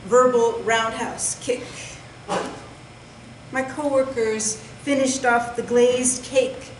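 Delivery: measured poetry recital in short, separated phrases; deliberate delivery with pauses between lines; poem reading. Acted. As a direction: read your poem to an audience, landing each phrase. Reads own poem aloud.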